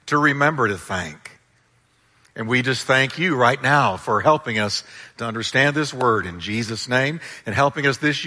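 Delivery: understated, grateful congregational prayer. Real, not acted. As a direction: talk humbly to God on everyone's behalf. Leads a prayer.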